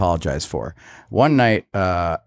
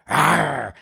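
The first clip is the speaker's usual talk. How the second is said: mock biting growl; 6 semitones higher than usual. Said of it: "I go like this".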